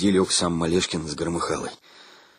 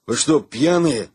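surprised; 5 semitones higher, 5 dB louder, slower than usual. A narrator's reading. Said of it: "удивлённо посмотрел".

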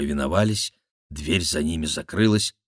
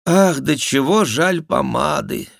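mock sigh; 9 semitones higher, 6 dB louder than usual. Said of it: "вздохнул Шико".

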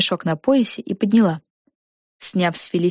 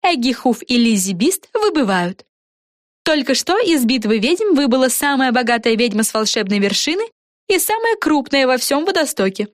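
raised, bright broadcast voice; TV announcer; 6 semitones higher than usual. Acted. Announcer reporting two witches knocked out. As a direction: report it like live TV.

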